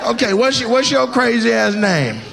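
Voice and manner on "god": high squealed oh my God; mock excited squeal. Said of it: "She's like".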